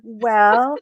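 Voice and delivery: high, plaintive coyote voice; storybook coyote whimpering about the storm; hurt coyote. Acted. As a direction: complain as if being battered.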